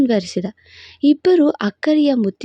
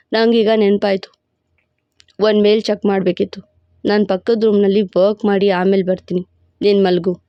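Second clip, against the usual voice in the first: lower, commanding male lead; a proud, possessive lover laying claim; possessive hero voice; 5 semitones lower, faster than usual. Acted. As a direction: hero boasting to his beloved in a lower voice. Hero excuses himself.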